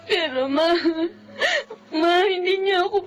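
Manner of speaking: crying, pleading with her mother; tearful plea to mother. Acted. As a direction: beg through tears, slowly.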